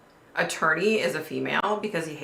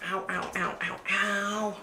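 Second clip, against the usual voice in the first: pained ow; 2 semitones higher, 6 dB quieter, slower than usual. Real, not acted. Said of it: "my foot is killing me".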